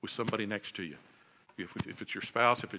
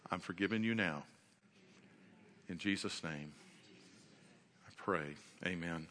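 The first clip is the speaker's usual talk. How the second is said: fervent prayer; 3 dB quieter than usual. Acted. Pastor prays over the congregation's families, quiet and earnest. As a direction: pray it over them, sinking softer toward the amen.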